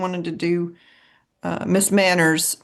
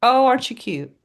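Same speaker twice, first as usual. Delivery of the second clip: high, louder condescending coo; mock patronizing; 6 semitones higher, 5 dB louder than usual. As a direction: imitate people talking down to Southerners. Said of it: "People think".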